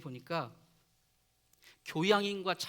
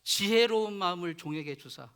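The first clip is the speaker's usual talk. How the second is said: lightly acted earnest prayer to God; Solomon; 4 dB louder than usual. Young new king prays to God for wisdom, mildly pleading. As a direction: plead aloud, forceful openings that ease off. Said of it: "솔로몬이 그래도 양심 있는 사람".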